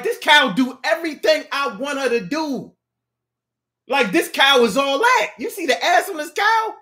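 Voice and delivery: high, boastful bragging voice; proud cow owner. Acted. Bragging to other men about his cow, high and boastful. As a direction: show off your cow to the guys.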